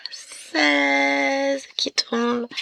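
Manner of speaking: very slow, high announcement; dramatic reveal. Acted. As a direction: stretch out the reveal. Announcing the drawn number.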